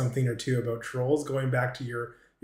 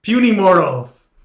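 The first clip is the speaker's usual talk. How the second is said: booming, higher, much louder overlord; vast deep cosmic voice; 5 semitones higher, 10 dB louder than usual. Acted. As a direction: roar it down at tiny mortals. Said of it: "What does it sound like?".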